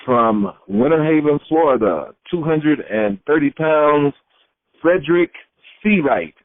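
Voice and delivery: wrestler announcing himself, drawing out the figures and name; retold ring introduction. Rookie says his name out for the promoter, mock ring announcement. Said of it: "say your name out like you're getting ready to wrestle".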